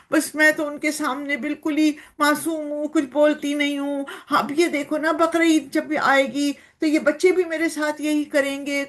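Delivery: lightly voiced cow, a touch aggrieved; complaining cow. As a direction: play the cow pouring out her woes. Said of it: "دکھا رہی ہے". (ہلکی سی شکایتی گائے کی آواز)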